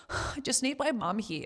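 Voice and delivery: sigh, then a choked-up little plea; on the verge of tears. Retold or imitated. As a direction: relive needing your mum, close to crying. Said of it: "Oh, I'm gonna cry again".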